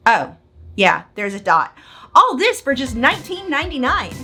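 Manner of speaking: over-the-top TV ad pitch; infomercial. Acted. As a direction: sell it like a late-night infomercial. Parody infomercial read by S0.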